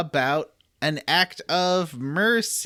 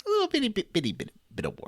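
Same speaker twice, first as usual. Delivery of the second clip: high cutesy voice; 7 semitones higher, 4 dB quieter, faster than usual. Retold or imitated. Echoing high Patrice voice.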